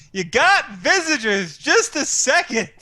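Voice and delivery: yelling upstairs. Acted. Wife calling up to the lodger, lightly yelled. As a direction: call up the stairs, fed up. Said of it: "she just yells up to him".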